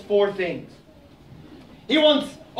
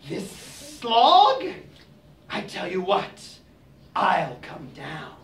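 slow snake; 2 semitones lower, slower than usual. Acted. Snake replies.

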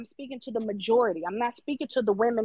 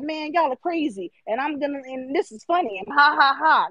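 mock amused viewer; 3 semitones higher than usual. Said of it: "You're like".

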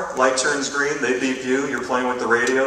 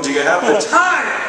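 higher, louder insisting; exasperated demand; 6 semitones higher, 6 dB louder than usual. Retold or imitated. Asking the owl again, exasperated. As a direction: lose patience with the owl.

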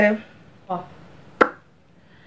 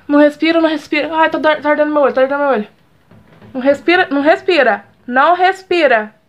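panicked pleading; 4 semitones higher than usual. Real, not acted. Glue in her eye, panicking.

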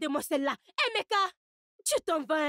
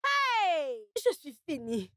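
despairing cry; much slower than usual. Acted. Mother despairing to her son.

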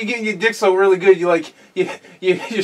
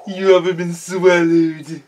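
mock preacher. Mimicking the preacher's clip just played.

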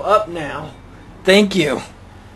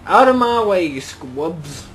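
frustrated driver yelling out of my way; yelling at traffic; 3 dB louder, slower than usual. Real, not acted. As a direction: bark it out at the traffic.

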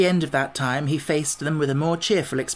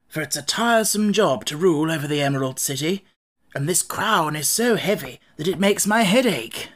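lightly voiced monarch, raised pitch; Scarecrow king, mildly troubled; 4 semitones higher, 3 dB louder than usual. Scarecrow king reflects on losing his throne, mildly troubled. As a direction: lightly act a king airing his worries.

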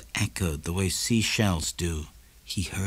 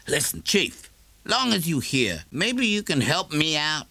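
a higher, easy neighbour voice; Morrison's voice, lightly; 7 semitones higher than usual. A narrator's reading. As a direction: coax a favour from the shopkeeper.

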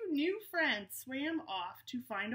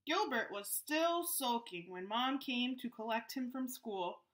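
story narration. A narrator's reading. Reads the story aloud.

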